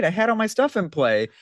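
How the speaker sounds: bewildered new player. Retold or imitated. New player wailing at the board wipe in outrage. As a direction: squeal like a beginner who just lost everything. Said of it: "and then the player goes".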